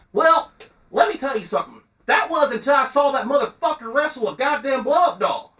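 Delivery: heated Southern wrestling reviewer, high and held back in volume; Bucky Johnson. Acted. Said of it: "the dude just gets heated".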